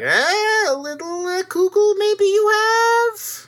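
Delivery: put-on high, drawn-out old Jewish accent; old Jewish man. Doing the bit sometimes, exaggerated old Jewish voice. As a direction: whine it as a caricature old Jew. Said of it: "does the old Jew voice".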